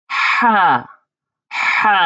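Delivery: হা with a tightened throat; throat-squeezed ha. Shown as a demonstration. Teacher showing learners the small ha, হা throat-squeezed. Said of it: "এই হার উচ্চারণ গলাটা চেপে হবে".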